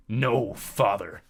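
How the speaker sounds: slow sneering mimicry; mocking imitation. A narrator's reading. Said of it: "Ares mimicked".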